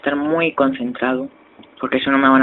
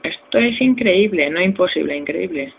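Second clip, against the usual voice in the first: amazed; 3 semitones higher than usual. Real, not acted. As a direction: marvel at it, then settle down. Amazed at flying in game.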